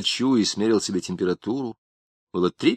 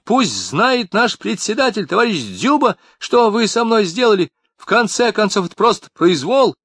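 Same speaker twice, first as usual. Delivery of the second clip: much higher, louder outraged complaint; shrill protest; 11 semitones higher, 4 dB louder than usual. A narrator's reading. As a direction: threaten them with his boss. Tamarkin protesting.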